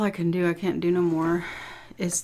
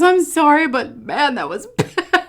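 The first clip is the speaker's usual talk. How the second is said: imitating husband; 8 semitones higher, 7 dB louder than usual. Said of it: "He goes".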